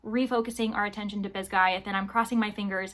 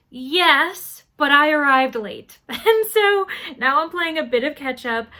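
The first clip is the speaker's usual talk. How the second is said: sheepish laugh; 4 semitones higher, 8 dB louder than usual. Real, not acted. Admitting she arrived late.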